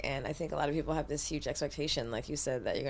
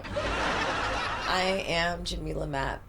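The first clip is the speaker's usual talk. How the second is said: slow sexy intro; much slower than usual. Real, not acted. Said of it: "This is my sexy voice".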